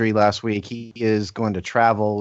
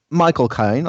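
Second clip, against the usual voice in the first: put-on higher-pitched British accent on the name; Michael Caine; 3 semitones higher, 4 dB louder, slower than usual. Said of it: "I can do a little bit of a Michael Caine".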